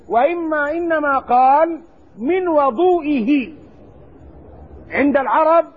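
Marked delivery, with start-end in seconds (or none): 2.2-3.5 "وضوئه" as wa-DOO-i-hi; drawn-out "وضوئه" with an open wa-; fatha on the waw. Shown as a demonstration. Teacher correcting to what was really said, fatha on the waw. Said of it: "الفتحة والضمة".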